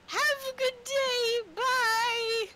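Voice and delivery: high, loud sing-song goodbye; cheery NPC farewell. Acted. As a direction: chirp a bright farewell as she leaves. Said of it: "she gets up".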